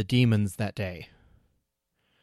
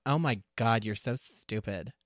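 put-on obnoxious teenager; slower than usual. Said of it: "that voice is the teenager".

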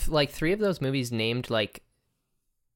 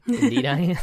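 laughing villain; 10 semitones higher than usual. Acted. Playful villain reply.

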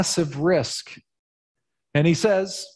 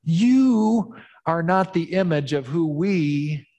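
exasperated townsfolk; 5 semitones higher than usual. Acted.

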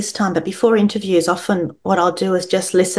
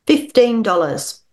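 resolute; 4 semitones higher than usual. Acted. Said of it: "her voice resolute".

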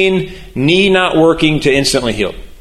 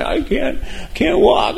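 put-on a boy at camp crying out in pain; hurt kid crying out; 11 semitones higher, 3 dB quieter, slower than usual. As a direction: wail it like a kid with a busted knee. Injured kid cries at camp.

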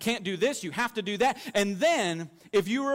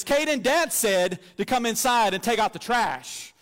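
slower, a touch louder and very sure of herself; bossy authority; 3 semitones higher, 4 dB louder than usual. Retold or imitated. Five-year-old passing on Dad's order to her brother, mock stern. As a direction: deliver Dad's order like it's law. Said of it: "with all the authority that I have invested in her".

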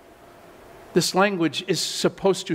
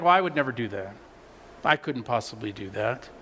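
mock smug; 7 semitones lower, 5 dB quieter than usual. Mock self-righteous quote.

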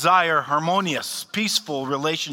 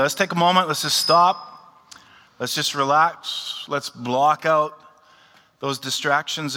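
calm settling; 3 dB louder than usual. Real, not acted. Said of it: "pastor calms congregation before prayer".

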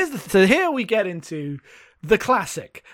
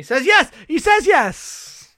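high and drawn out, stunned; incredulous; 9 semitones higher, 3 dB louder, slower than usual. Real, not acted. Cohost reacting to the hero agreeing, stunned and incredulous. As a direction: stretch the second yes in disbelief. Outraged at the character's choice.

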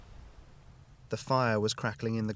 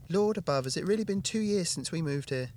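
amazed; 8 semitones higher than usual. A narrator's reading. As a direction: marvel at how time flew. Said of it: "Hannah amazed".

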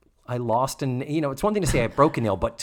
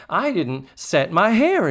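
high, slow bratty mock complaint; whiny schoolgirl imitation, pitched up; shittily; 6 semitones higher, 4 dB louder than usual. Girl listing her sacrifice to housemother, mock bratty. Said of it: "shittily, I will add".

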